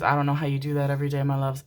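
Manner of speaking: fast, run-together words; quick remark. Real, not acted. To Libra viewers about their daily emotions, quick run-together delivery. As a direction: rattle it off quickly. First take, before emphatic repeat.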